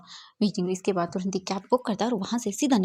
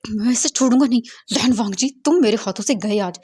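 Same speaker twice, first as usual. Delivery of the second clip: loud furious threat; louder, fuming vow of revenge; angry vow; 2 semitones higher, 6 dB louder than usual. Acted. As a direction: yell the threat after him. Vowing revenge, calling out.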